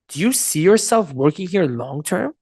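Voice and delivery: slow, judging question, rising at the end; bad tonality. Shown as a demonstration. Coach inviting someone to business, slow and judging. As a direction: draw it out sceptically. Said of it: "right wording with bad tonality".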